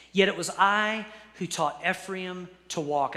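deliberate, emphatic Bible reading; scripture reading. Acted. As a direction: proclaim the verse phrase by phrase. Reads God's words from Hosea.

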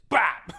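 sudden percussive "bap"; imitated bursting noise. Teller showing the shot coming back up, sudden bursting noise. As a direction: pop it out abruptly.

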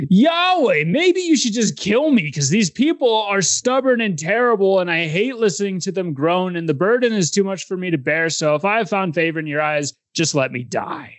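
high, overwrought complaint that sinks at the end; melodramatic. Retold or imitated. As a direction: wail it like a martyr. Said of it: "A bit melodramatic if you ask me".

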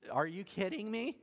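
can-you-believe-this reaction; mock incredulous. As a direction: act out disbelief, pitch climbing to the end. Mimics incredulous reaction to being put off.

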